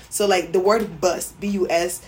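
ordinary talk, nothing marked

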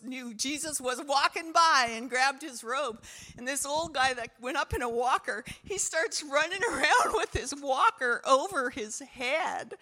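exuberant, building to a loud high finish; excited testimony. Real, not acted. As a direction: tell it loud and high, thrilled. Excited climax of healing testimony.

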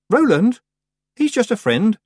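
put-on a touch of a flustered girl; young girl. A narrator's reading. Tiffany brushes off the witch's teasing, lightly defensive girl.

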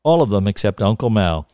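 measured, deliberate storyteller; literary reading aloud; story narration. A narrator's reading. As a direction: read it with wry relish, lingering on phrases.

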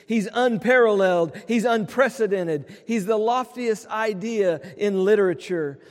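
rhythmic, rising litany of praise; preaching. Acted. Pastor quoting Lockridge's "That's my King" to the congregation, preaching. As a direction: preach it, building line by line.

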